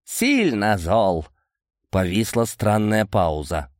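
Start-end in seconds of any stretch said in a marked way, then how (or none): 0.0-1.3 high-pitched anger, slowing on the last words; worked-up anger. Acted. Boris denies panic to Amadei, high and angry. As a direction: start high and indignant, then drag out the ending.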